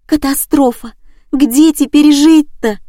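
distraught wail. Acted. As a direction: wail over the ruined home. Liza wails over her flat.

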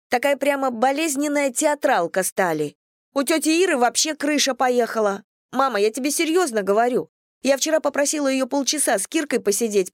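put-on a grumbling teenager airing grievances; teen daughter's voice.

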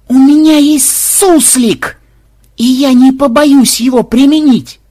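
very high, loud, slow; showing off the secret weapon; triumphant shout. A narrator's reading. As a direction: shout the threat grandly.

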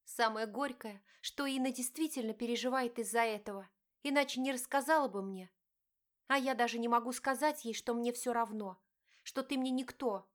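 wife confronting her cheating husband, pained; hurt wife. Acted. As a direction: plead and accuse at once. Diana's bitter speech.

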